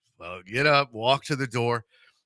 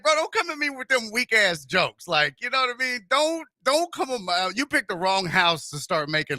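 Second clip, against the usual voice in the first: retold rebuke; 6 semitones higher than usual.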